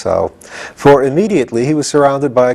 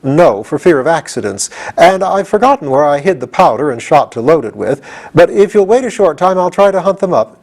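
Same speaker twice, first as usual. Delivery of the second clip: timid soldier; 5 semitones higher than usual. Acted. The soldier explains his empty gun, high. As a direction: explain sheepishly.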